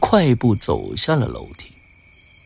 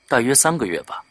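softened, tentative answer; hushed reply; 7 dB quieter than usual. Acted. Man replying about the woman, hushed. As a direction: answer quietly. Hushed private talk outside.

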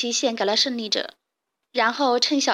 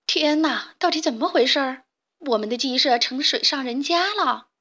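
exclaiming; 2 semitones higher than usual. Acted. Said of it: "卡梅拉大喊道".

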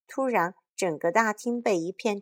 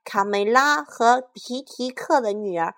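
shouting; 3 semitones higher, 6 dB louder than usual. Acted. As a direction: roar defiance at the monster. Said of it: "高喊道".

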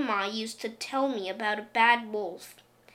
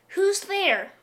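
called out; 9 semitones higher, 3 dB louder than usual. Acted. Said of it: "a voice called".

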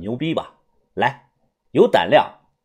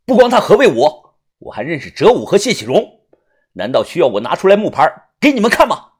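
loud and reckless; 4 semitones higher, 4 dB louder than usual. Acted. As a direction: burst out much higher and louder, then hold it up. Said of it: "我不管不顾大声地说".

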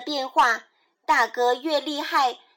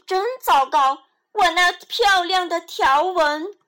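crying out; 4 dB louder than usual. Acted. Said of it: "斑马大叫起来".

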